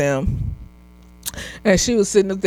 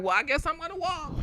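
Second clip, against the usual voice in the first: deadpan resignation; 7 semitones higher, 12 dB quieter than usual. Retold or imitated. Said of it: "I was sitting up here like".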